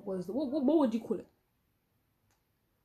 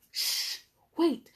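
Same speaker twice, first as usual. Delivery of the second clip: whisper; 6 semitones higher than usual. Retold or imitated. Whispering to friend in assembly.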